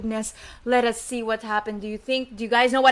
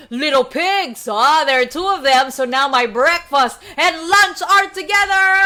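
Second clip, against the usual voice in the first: big bad wolf; 4 dB louder than usual. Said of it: "the big bad wolf said".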